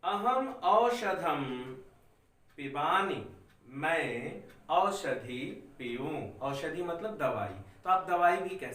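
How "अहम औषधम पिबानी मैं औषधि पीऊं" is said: slow, spaced dictation for students to write; धीरे धीरे बोलना. Shown as a demonstration. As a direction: read each word slowly so the class can copy. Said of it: "मैं इतना धीरे धीरे बोल रहा हूँ". (बच्चों को लिखवाने के लिए धीरे धीरे पढ़ना)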